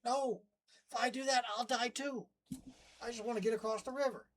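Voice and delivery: lightly voiced begging scorpion; pleading scorpion. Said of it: "poor scorpion's like".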